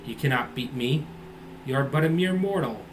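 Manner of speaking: slow, sneering evil sword spirit; gloating villain. Acted. The possessed sword taunting Malcolm, slow sneering. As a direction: drawl the threats like a cruel demon.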